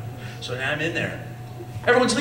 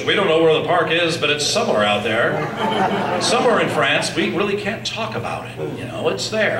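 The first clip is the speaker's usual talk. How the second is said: playful mascot voice; 5 dB louder than usual. Retold or imitated. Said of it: "where Mickey goes".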